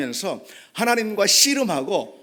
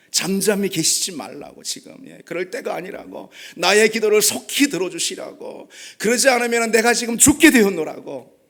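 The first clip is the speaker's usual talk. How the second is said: crying out; 2 semitones higher, 4 dB louder than usual. Retold or imitated. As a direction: build to an insistent cry for help. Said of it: "부르짖고 있는 거예요".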